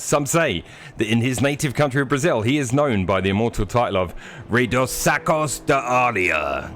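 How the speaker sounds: repeating the grand TV presenter line; mock announcer intro. Shown as a demonstration. Repeating the intro line for the guest, mock announcer. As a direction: read it out again like a show host. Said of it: "can you please repeat that phrase".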